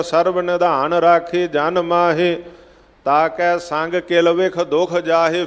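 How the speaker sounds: drawn-out, measured chant of the verse; slow recited Gurbani; slow scripture recitation. Acted. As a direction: intone each word slowly, devoutly. Recites scripture line in katha.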